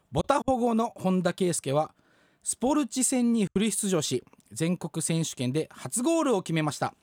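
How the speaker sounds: steady, measured newscaster reading; news read. Acted. Radio host reading the next news item, newscaster style. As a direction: read it like the sports desk news.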